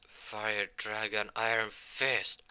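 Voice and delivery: each word drawn out, a battle cry for the special move; slow attack call. Acted. Hero calls out his fire dragon punch, slow battle cry.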